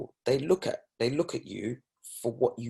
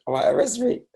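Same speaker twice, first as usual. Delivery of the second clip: much higher and louder, daring him; defiant dare; 14 semitones higher, 5 dB louder than usual. Retold or imitated. Driver daring the officer to arrest him, loud and high. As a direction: throw the challenge right back.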